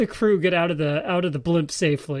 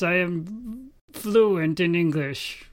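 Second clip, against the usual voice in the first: mock Japanese accent; 3 semitones higher, much slower than usual. Mocking a Japanese radio voice actor to friends, slow hammed-up Japanese accent. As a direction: drag it out like a stiff Japanese voice actor reading English. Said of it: "not some Japanese person being like".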